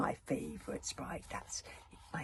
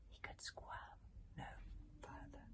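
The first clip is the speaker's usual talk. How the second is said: hushed suspense; 18 dB quieter than usual. A narrator's reading. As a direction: drop to a hush for the stuck moment. Suspense, hero gets stuck.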